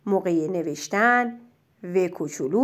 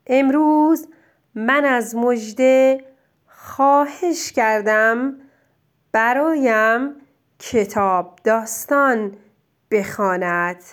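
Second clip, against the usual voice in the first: reading along. Shown as a demonstration. Teacher reading the sentence back with the pupil. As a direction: read the sentence back together evenly. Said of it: "جمله رو با هم بخونیم".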